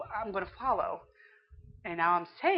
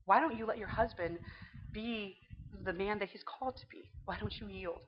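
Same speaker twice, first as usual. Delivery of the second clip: gentle inner voice; 3 dB quieter than usual. Retold or imitated. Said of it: "the spirit inside of me opened up and said".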